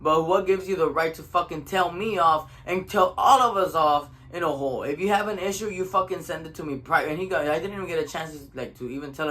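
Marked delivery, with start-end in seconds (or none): 0.0-7.1 mildly heated retold telling-off; indignant, swearing rebuke with restrained force; pissed off. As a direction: chew someone out, holding the volume near normal. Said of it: "I called him all pissed off".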